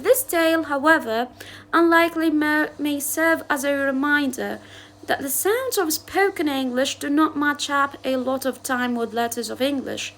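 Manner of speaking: careful, slow read-aloud of English text; slow textbook reading. Acted. Teacher reading the English passage to her class slowly. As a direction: read each word out slowly for students.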